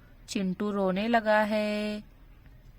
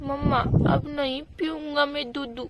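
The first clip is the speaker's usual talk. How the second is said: put-on higher, babyish whine for milk; a hungry little child pleading; toddler voice; 3 semitones higher than usual. Chintu begging his mother for milk, higher babyish whine.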